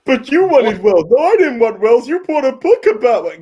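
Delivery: playing both lovers bickering, loud; mock argument. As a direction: hammer out both sides of the spat. Acting out movie argument.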